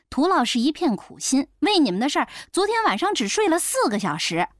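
斥责. Acted. 医生怒斥向大娘.

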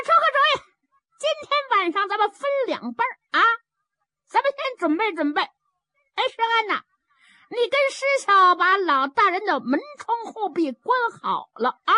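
high, quick, lively sidekick voice; a cheery little fellow chattering out his plan; comic sidekick. Acted. Zhao Bi proposing a plan to his brothers, in a high, quick, cheery voice.

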